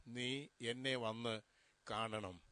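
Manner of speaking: soft, slow, low last words of a dying mother; dying mother's plea. Retold or imitated. Dying mother asking her son to come see her, soft slow plea. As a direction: let it sink, slow and hushed like a last wish.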